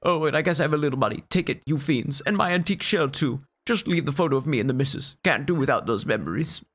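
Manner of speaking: a fussy elder giving up his money; indignant old Koopa. Acted.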